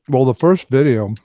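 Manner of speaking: talking with mouth full; words through a mouthful of food. Real, not acted. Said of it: "I'm talking with my mouth full".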